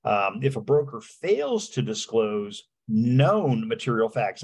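known を強く、ゆっくり読む; stress on known. Shown as a demonstration. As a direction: slowly lean on the word known. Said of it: "and I emphasize the word known".

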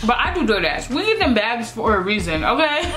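speaking through fingers; muffled while eating; hand over mouth. Real, not acted. Seen 1: Fingers cover her mouth throughout while speaking, fork in hand.

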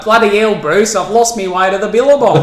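Australian model, slightly lifted; Australian accent. Shown as a demonstration. Guest modelling it for the host to copy, Australian accent. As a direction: demonstrate a clear Australian accent. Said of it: "So I'll do it for you".

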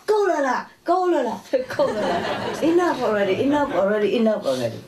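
high, nagging mock voice, laughing through it; imitating the fussy resident. Teacher mocks the old resident chasing people from the kitchen, high and nagging. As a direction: shoo them away like a fussy old lady. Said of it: "she always goes around".

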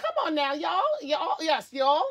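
Southern drawl on y'all, put on for fun; playful Southern accent. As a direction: imitate a Southern accent, lightly exaggerated. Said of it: "I love the Southern accent".

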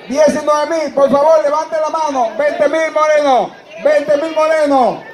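rapid bid calling, rising; auctioneer. Acted. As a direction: call the bids like an auctioneer.

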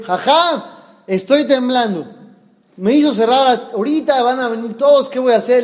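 mildly panicked worry, voiced in a retelling; acted panic. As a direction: plead for help, a touch alarmed. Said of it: "temblando la mano".

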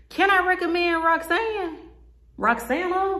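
high, laughing question; tickled, laughing while asking. Real, not acted. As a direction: giggle through the name. Laughing over the wig's name.

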